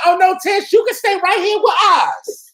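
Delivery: high, loud excited greeting. Real, not acted. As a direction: shout with delight at the caller. Host greets famous caller Letitia.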